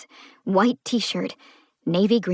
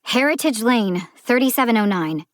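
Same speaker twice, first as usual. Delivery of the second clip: huffy answer; 4 semitones higher, 4 dB louder than usual. Acted. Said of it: "Eve huffed".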